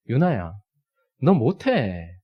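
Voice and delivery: put-on slow, gentle consoling of a crying child; dad gently consoling crying daughter; comforting. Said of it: "유나를 위로한다고".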